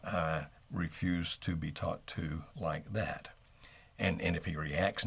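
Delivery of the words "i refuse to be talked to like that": slow, soft and steady, no edge; calm and firm. Shown as a demonstration. Coaching a listener to answer a disrespectful partner calmly, slow and soft. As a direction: refuse it quietly, holding your ground. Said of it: "very calmly, without yelling".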